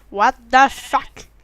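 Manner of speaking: very loud, very slow stretched shout; startled shout. Real, not acted. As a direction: bellow in shock.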